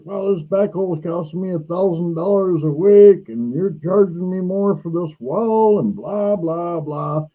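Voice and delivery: lightly voiced landlord complaining about costs; landlord freaking out. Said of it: "the landlord is freaking out".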